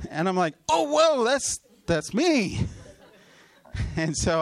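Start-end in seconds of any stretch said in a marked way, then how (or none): 0.7-2.7 much higher and louder, then slowing on that's me; stunned whoa, far higher, drawn out on the last words; startled realisation. Retold or imitated. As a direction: gasp it out like you just heard your name. Realising he is called out.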